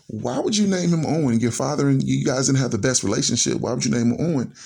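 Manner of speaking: a touch of disbelief in her question; surprised wife. Retold or imitated. Wife questioning the baby's middle name, mild surprise. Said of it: "my wife was very surprised".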